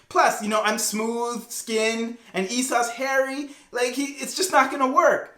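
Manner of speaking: lightly acted nervous objection; worried protest. Jacob protesting to his mother's scheme.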